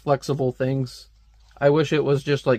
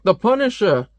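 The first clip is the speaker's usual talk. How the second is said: high-pitched mock exclamation; mock alarmed cry; 8 semitones higher, 3 dB louder than usual. Gunman spots the Punisher as shooting starts, mock alarmed cry. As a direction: cry out the name in hammed-up alarm.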